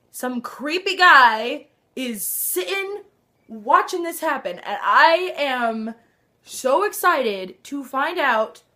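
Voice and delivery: slow, loud, thrilled emphasis; excited gushing. Real, not acted. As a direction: gush over it with delight. Thrilled fan gushing about show.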